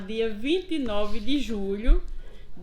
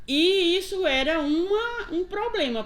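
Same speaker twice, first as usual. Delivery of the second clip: higher pitched, half-laughing, half-crying catch; voice breaking; 7 semitones higher, 5 dB louder than usual. Real, not acted. Retired teacher recalling hard years at her school, voice breaking. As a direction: let the voice crack with emotion on the memory.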